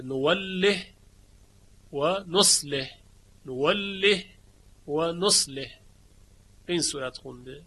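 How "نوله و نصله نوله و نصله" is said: نوله and نصله ending in a silent h, no vowel; Shu'ba reading, silent ha. Shown as a demonstration. Teacher shows students Shu'ba's endings, silent ha. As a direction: close نوله and نصله on a still h. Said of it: "شعبه به اسکان ها خونده".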